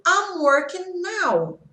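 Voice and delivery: slow example read with a high start on "I'm". Shown as a demonstration. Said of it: "Por exemplo".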